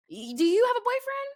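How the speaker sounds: high, loud mocking voice for the driver; hammed-up creepy driver asking. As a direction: squeal his creepy question in disbelief. Voicing the Uber driver.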